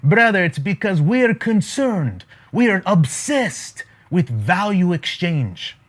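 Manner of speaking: lightly put-on Jewish accent, slow and weighty. Billionaire friend explains value exchange, mock Jewish accent. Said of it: "that's my Jewish accent there".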